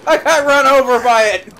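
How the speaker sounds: loud surprised outburst; startled exclaim. Real, not acted. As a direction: blurt it out, caught off guard. Hit in game.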